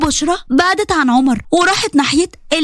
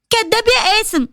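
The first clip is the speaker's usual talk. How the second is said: put-on higher girlish voice; teasing girl; 5 semitones higher than usual. Teenage Bushra teasing Qasim, high and girlish. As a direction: tease him like a young girl.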